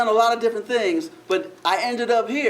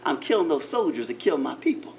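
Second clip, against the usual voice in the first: lightly voiced grandma; 6 semitones lower, 3 dB quieter than usual. Grandma voice, low.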